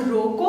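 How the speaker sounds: "रोको" set apart with a rising end; comma after रोको. Shown as a demonstration. Teacher moves the comma for students, रोको standing alone. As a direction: stop after रोको, before any मत. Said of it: "उसके बाद अगर आपने अल्प विराम लगा दिया".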